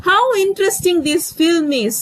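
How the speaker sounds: high, carried-away "How interesting"; lost in wonder at the film; amazed. Shown as a demonstration. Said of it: "மெய் மறந்து சொல்றோம்".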